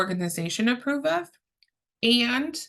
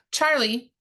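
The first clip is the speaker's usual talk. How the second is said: slightly raised, higher-pitched call; raised volume; 5 semitones higher than usual. Shown as a demonstration. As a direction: call the name to interrupt, voice lifted a little. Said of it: "we have to raise the volume of our voice".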